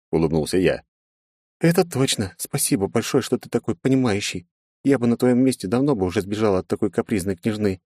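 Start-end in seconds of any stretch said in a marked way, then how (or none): 1.6-7.8 put-on apologetic young princess. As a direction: ask forgiveness gently. Princess thanks him.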